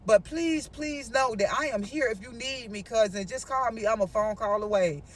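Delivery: low, soft earnest offer; gently reassuring. Retold or imitated. Cousin offering help before hanging up, gently reassuring.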